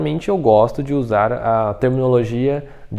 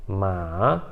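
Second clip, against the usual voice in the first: "ma" starting low and swinging up; "ma" with a low start and rising end; mistaken rising tone; 5 semitones lower, 5 dB quieter than usual. Shown as a demonstration. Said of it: "se você falar assim".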